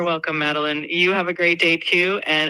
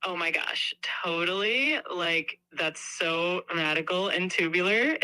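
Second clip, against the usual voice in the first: put-on bubbly valley girl voice; 5 dB quieter, slower than usual. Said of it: "in Valley Girl style?".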